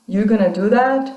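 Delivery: "You're gonna do that?" lifting on THAT; statement word order with "that" turned up as a question; rising question intonation. Shown as a demonstration. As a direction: ask it, pitch climbing to the end on "that". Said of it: "rising intonation".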